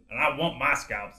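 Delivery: slow, drawn-out movie quote; film character's line. Retold or imitated. Podcaster quoting the trailer to coax a co-host, slow imitation. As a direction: lightly imitate the movie hero, stretching the words. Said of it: "he goes, he goes".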